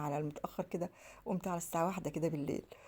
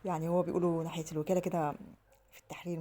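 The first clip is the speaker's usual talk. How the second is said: ordinary talk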